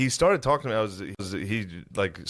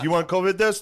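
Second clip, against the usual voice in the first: loud, high pushy kiosk pitch; mall kiosk seller; 10 semitones higher, 5 dB louder than usual. Retold or imitated. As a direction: call out like a mall kiosk guy. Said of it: "they yell at you".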